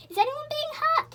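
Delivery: loud high call from the window. A narrator's reading. Joe at the window, calling loudly. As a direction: shout into the night bravely. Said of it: "he called".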